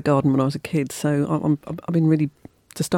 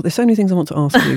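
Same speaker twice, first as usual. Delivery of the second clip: laughing; 4 dB louder, faster than usual. Real, not acted. Host laughing while greeting guest.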